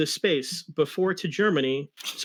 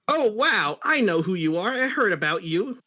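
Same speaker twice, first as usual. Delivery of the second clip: excited wow; 5 semitones higher, 3 dB louder than usual. Acted. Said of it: "said Sonic".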